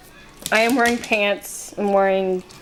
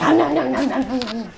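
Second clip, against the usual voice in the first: nom nom noises; 2 semitones higher than usual. Retold or imitated.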